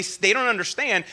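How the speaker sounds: ordinary talk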